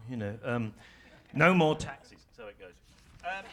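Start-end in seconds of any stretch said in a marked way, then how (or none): 1.3-2.2 "No more taxes" as a loud political slogan; "No more taxes" with firm weight on every word; three strong beats. Shown as a demonstration. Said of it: "kind of strong beats".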